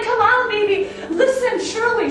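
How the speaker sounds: high, loud, eager cut-in; excited interruption. Retold or imitated. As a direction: break in, too thrilled to wait. Cutting in on husband and neighbor.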